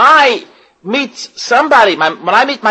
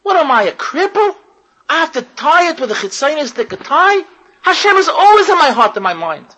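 mocking wife; 3 semitones higher than usual. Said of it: "She laughs at him".

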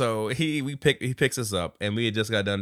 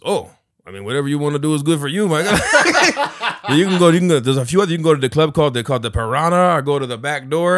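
louder, higher laughing driver voice; driver impression; 4 semitones higher, 8 dB louder than usual. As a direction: pitch the club suggestions with a chuckle. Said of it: "he goes".

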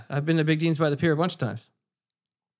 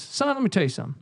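lightly voiced cop father, barely shifted; a hint of a no-nonsense dad; impersonating his father; 2 semitones higher, faster than usual. Telling his heartbroken son on the phone, a hint of a stern father. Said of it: "this is a pretty good impersonation".

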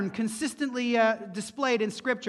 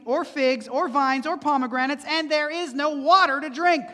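complaining crowd; 4 semitones higher, 4 dB louder than usual. Acted. The people quarrelling with Moses, mildly whiny complaint. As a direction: lightly voice the grumbling people. Grumbling Israelites quoted complaining.

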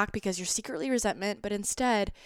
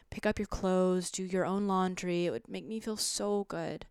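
calm communicative partner. Pretend. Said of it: "Very stage two, communicative".

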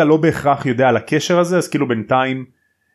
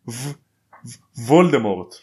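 hesitant stammer; 2 semitones lower than usual. Retold or imitated. Retold hesitation before a feared name.

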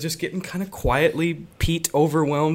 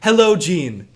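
louder, posh British phone manner; fake British phone voice; 6 dB louder, slower than usual. Movie dad answering Gene's call in a put-on British accent. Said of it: "weird British voice whenever he's on a phone call".

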